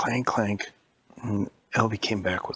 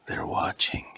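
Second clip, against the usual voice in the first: a hushed, secretive whisper; fearful whisper; slower than usual. Acted. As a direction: whisper like someone's listening. Boy fearfully says they watch.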